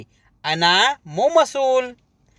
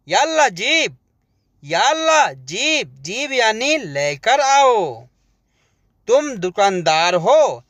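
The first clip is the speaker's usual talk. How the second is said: ordinary talk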